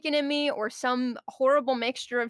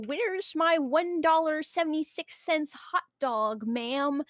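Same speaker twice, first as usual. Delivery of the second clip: rude customer voice; 4 semitones higher, slower than usual. Retold or imitated. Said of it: "breathing down your throat going".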